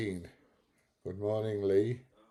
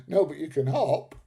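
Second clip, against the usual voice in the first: imitating mum; 7 semitones higher, 9 dB louder than usual. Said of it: "Mum used to say".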